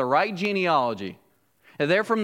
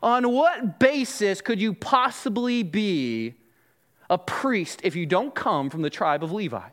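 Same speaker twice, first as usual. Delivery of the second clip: rude, challenging. Acted. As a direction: demand an explanation like an affronted Levite. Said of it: "in a very rude and a challenging way".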